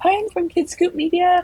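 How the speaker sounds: put-on very high, tiny little kid voice. Host imitates a kid reporter at post-game press conferences: small tiny voice. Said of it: "a small, tiny voice like".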